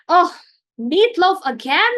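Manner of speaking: put-on child griping about meatloaf at the table; yelling in disgust. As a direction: read it like a kid who hates dinner. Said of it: "Matt yelled".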